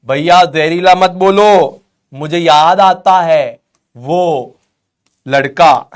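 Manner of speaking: lightly acted lovelorn student, drawn out; pleading student. Student begging teacher not to say that word, mock-pleading. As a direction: plead slowly, stretching out the words.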